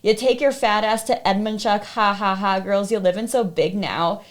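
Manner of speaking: put-on sing-song sneer at the girl; mocking stalker voice. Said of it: "mocking me".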